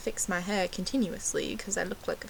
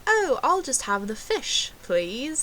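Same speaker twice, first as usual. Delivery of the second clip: put-on British accent, pitched up; 5 semitones higher, slower than usual. Fake Brit ordering dinner at Applebee's, mock British accent. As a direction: imitate yourself faking British to a waiter. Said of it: "ordered my drink in a British accent".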